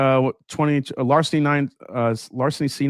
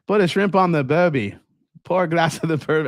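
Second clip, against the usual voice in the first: put-on a mild, half-hearted try at an Australian accent; bad Australian accent; 4 semitones higher than usual. Bourbon streamer joking that Burby sounds Australian, badly faked Australian accent. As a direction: ham up a clumsy Australian accent for a joke. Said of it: "I can't do Australian accent".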